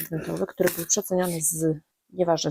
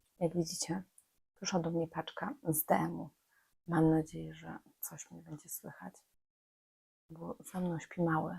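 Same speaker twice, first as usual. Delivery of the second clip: soft, hushed, low-volume talk; 11 dB quieter than usual. Vlogging in the dark while the little one sleeps behind her, speaking quietly. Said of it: "muszę mówić cicho".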